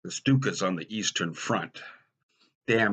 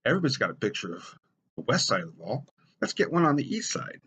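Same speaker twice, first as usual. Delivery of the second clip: excited idea; 5 semitones higher, faster than usual. Retold or imitated. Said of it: "I said".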